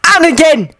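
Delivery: very high furious scream. Acted. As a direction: hurl the curse after them. Anakin screaming after fleeing boys.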